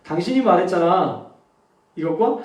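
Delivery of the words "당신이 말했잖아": 당신이 말했잖아 a notch lower and less forceful; one tone lower. Shown as a demonstration. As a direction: bring the whole phrase down a tone. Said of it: "한 톤만 내려서".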